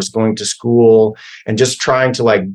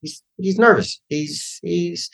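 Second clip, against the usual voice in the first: high, hushed mock Scorsese voice; Scorsese impression; 5 semitones higher, 4 dB quieter than usual. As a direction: imitate the director sizing you up, pitched up and soft. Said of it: "he was kinda like".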